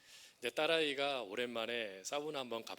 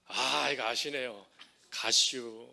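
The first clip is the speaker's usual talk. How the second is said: clipped Chungcheong punchline, louder; terse Chungcheong dialect; 2 semitones lower, 6 dB louder, slower than usual. Retold or imitated. Pastor delivering the Chungcheong punchline, louder dialect. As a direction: blurt the short Chungcheong answer. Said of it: "충청도 분들은 뭐라고 말할까요".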